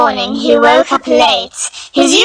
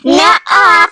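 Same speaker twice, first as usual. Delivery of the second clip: put-on louder, high childish nuh-uh; playful refusal; 4 semitones higher, 4 dB louder than usual. Patty refuses Kid, childish. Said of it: "Patty said".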